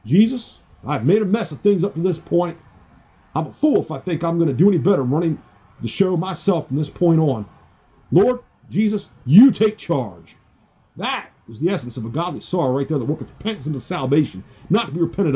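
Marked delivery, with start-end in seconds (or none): 0.0-10.3 pleading prayer to Jesus, rising; crying out to Jesus. Retold or imitated. Retelling his prayer to Jesus, pleading. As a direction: cry out for help, earnest. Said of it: "crying out and saying".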